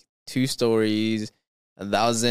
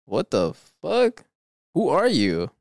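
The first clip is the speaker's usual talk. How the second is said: slow, higher-pitched mock shock; startled outburst; 4 semitones higher, slower than usual. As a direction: act out confronting an unexpected stranger. Reading aloud a startled reaction to intruder.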